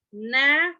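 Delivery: three spaced beats on "narrower", long final er; broken into syllables. Shown as a demonstration. Teacher showing comparative, "narrower" split in three. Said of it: "What are we doing?".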